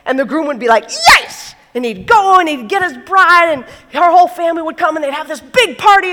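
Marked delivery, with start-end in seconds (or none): 1.1-1.5 high thrilled shout of yes; mock groom's delighted yes; excited yes. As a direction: burst out with joy. Groom thrilled at bride's arrival.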